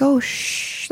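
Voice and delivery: put-on soft, hushed shush as to a baby; soothing shush. Therapist imagined soothing a client like a baby, soothing shush. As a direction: gently hush an imagined baby. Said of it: "like, soothing".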